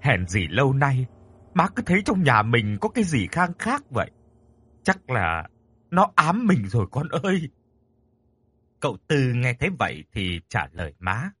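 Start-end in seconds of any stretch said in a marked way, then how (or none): 0.0-7.5 uneasy, mildly frightened worry; fearful. Acted. Mother telling her son the house may be haunted, mildly fearful. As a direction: confide a creeping dread. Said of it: "Bà sợ sệt nói".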